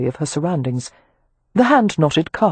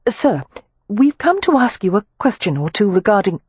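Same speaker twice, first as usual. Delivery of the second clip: put-on raised, polite young lady; Amelia's voice; 5 semitones higher than usual. Amelia addressing the club manager, formal and raised. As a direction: speak up, formally courteous.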